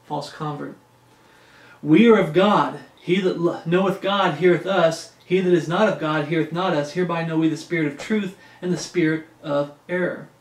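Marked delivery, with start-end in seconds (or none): 1.8-10.3 raised, measured Bible reading; scripture reading. Acted. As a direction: read it out like preaching from the pulpit. Continues reading First John.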